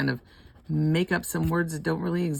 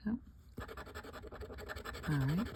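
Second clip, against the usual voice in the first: ordinary delivery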